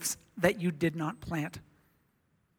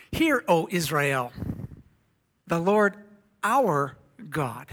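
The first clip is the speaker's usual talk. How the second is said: scripture reading. Acted. Reads scripture aloud.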